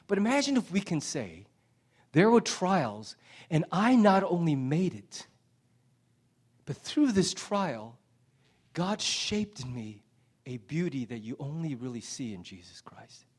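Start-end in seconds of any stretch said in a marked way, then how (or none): 2.1-13.3 heartfelt testimony. Retold or imitated. Voicing the deeper testimony.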